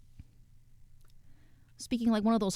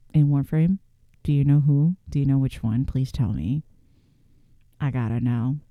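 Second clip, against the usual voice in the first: eager; 7 semitones lower, 5 dB louder than usual. Real, not acted. Eager questions, lower and louder.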